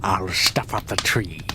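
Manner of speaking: low gloating villain voice; grinning Grinch. Acted. Grinch planning to take the tree, low and gloating. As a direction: gloat over the next theft. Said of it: "grinned the Grinch".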